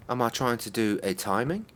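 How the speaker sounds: normal talking voice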